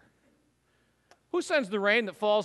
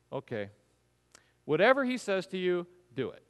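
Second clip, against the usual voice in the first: resigned mother. Retold or imitated. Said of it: "she probably said it like this".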